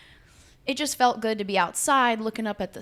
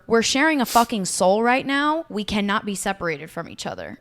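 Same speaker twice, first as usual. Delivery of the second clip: emphatic quote; 4 dB louder than usual. Retold or imitated. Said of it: "Her exact words were".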